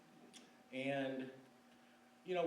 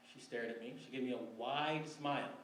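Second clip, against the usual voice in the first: ordinary talk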